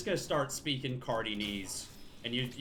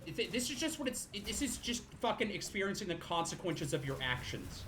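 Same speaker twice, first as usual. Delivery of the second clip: put-on baby voice; 4 semitones higher, 4 dB quieter than usual. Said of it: "Baby voice".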